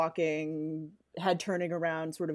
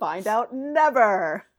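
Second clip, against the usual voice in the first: laughing; 3 semitones higher, 10 dB louder, slower than usual. Pretend. Mock trailer tagline.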